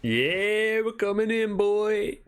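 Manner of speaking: playful threat to the grumpy blacksmith; mock tough call. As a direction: taunt him like a brute breaking in. Player barging into the smithy.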